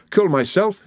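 high-pitched startled question; incredulous cry. A narrator's reading. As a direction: throw it back in disbelief. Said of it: "he cried".

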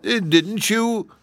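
high, slow surprised question. A narrator's reading. Kangaroo questions Dorothy about mittened kangaroos, surprised. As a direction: draw it out in high-voiced surprise. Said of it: "as if surprised".

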